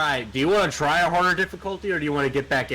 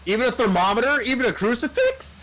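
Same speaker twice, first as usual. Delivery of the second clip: high, rising disbelief; can't believe it, pitch climbing; incredulous; 9 semitones higher, 3 dB louder than usual. Real, not acted. Incredulous questions about items.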